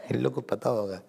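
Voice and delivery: a teacher's hushed remark about the students; whispered aside. Real, not acted. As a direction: murmur it under your breath to the room.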